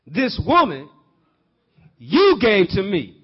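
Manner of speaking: loud, slow accusing answer; blaming Adam. Acted. Adam answering God, loud and slow blame. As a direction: drag it out pointing the blame.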